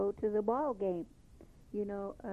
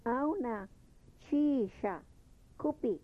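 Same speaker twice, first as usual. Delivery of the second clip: "Auna ... chisha ... kupi" with a pause after each word; 2 semitones higher than usual. Shown as a demonstration. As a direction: split the phrase so learners catch each word. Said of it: "Chi is your verb".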